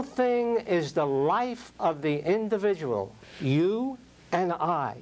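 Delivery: slow, deliberate reading of the quote, with weight on each phrase; read very slowly. Shown as a demonstration. Speaker reading a Jung quote slowly to the audience, deliberate. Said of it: "so I want to read it very slow".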